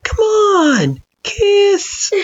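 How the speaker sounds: high, giggly coaxing; laughing tease. A narrator's reading. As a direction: coax it through laughter.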